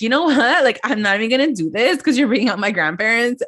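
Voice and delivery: mock fed-up outburst, starting high; retold losing it. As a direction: imitate someone snapping mid-argument. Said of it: "that's when Gia loses it".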